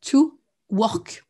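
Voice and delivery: slow unvoiced whisper of the sentence; whispered repeat. Shown as a demonstration. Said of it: "Je répète".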